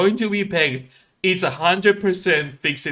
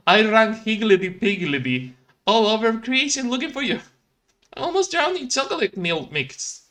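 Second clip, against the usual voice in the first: put-on higher, folksy old-timey lilt; quaint Felix voice; 4 semitones higher than usual. Felix telling Ralph his adventures, high folksy lilt. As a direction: gush like a lovesick small-town handyman. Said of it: "why do you talk like that?".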